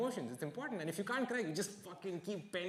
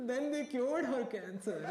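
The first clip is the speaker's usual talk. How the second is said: high, slow fake weepy voice; mock tearful storytelling; 8 semitones higher, slower than usual. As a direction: drag it out like an actor forcing tears. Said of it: "Can you not do the breathing thing?".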